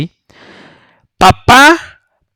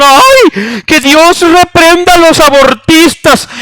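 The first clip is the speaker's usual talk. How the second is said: higher, slow hammed-up preacher outcry; mock preacher rant; 9 semitones higher, 3 dB louder, slower than usual. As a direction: ham up a preacher condemning abortion. Parodying a preacher ranting. (predicador exagerado en tono de burla)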